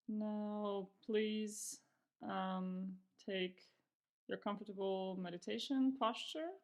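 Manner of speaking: calm, unhurried meditation guidance with long pauses; guided meditation. Real, not acted. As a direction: ease them into practice, pausing between phrases. Begins guiding the meditation.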